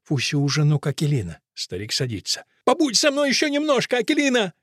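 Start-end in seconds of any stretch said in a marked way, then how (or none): 2.6-4.5 high, pleading cry; Fusia. A narrator's reading. Fusia begs Akelina to stay, crying out high. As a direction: beg aloud with the voice pitched up. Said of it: "кричит Фуся".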